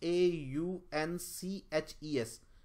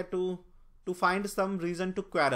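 slow reading aloud; 3 semitones higher, 3 dB louder, much slower than usual. Shown as a demonstration. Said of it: "reading an option".

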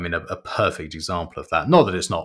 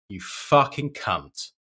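mock annoyed insult; 2 semitones higher, 5 dB louder than usual. Salesman imagines berating an indecisive customer, mock angry. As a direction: spit out each insult in mock exasperation. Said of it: "really used to annoy me".

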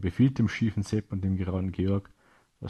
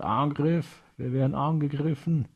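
high-pitched cry of alarm; alarmed shout; 7 semitones higher than usual. A narrator's reading. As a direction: raise the alarm, calling out high. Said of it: "Ein Soldat schreit".

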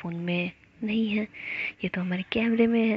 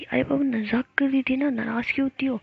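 higher, louder pleading coax; 5 semitones higher, 5 dB louder than usual. A narrator's reading. Jiya calling through the bathroom door, higher pleading coax. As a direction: call through the locked door to win her back. Jiya coaxing her offended partner.

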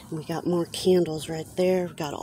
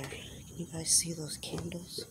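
whispering; 8 dB quieter than usual. Real, not acted. Whispering while dumpster diving.

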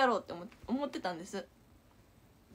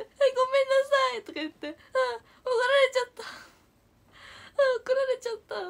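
higher and tearful, voice crying through the words; crying apology; 12 semitones higher, 5 dB louder, faster than usual. Retold or imitated. Girl crying "ごめんなさい" to the angry teacher. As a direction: sob out the apology like a scolded child. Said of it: "急に泣いちゃって".

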